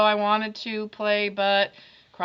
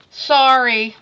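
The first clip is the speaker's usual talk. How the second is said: grudging sorry; 5 semitones higher, 12 dB louder than usual. Acted. Reading Jack's grudging note.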